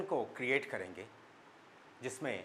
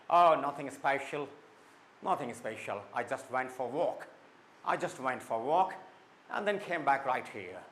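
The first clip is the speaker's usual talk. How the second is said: very slow, every word placed clearly; careful reply; much slower than usual. Shown as a demonstration. Angela answers slowly, each word clearly pronounced. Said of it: "हर word को अच्छे से pronounce करें".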